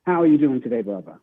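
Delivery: put-on English accent. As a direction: introduce yourself in a mock English accent. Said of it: "call in with an English accent".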